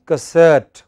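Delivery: "cassette" as kuh-SET, weight on SET; weak first syllable. Shown as a demonstration. Teacher sums up the word for class, stressed on second syllable. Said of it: "The first syllable is hardly heard".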